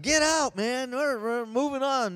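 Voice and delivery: imitated nurse, loud and high; high, loud mock order; bossy dismissal. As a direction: call out to clear the room.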